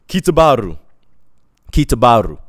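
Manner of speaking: loud, abrupt call of a name; imitated calling out. Imitates men calling from behind truck.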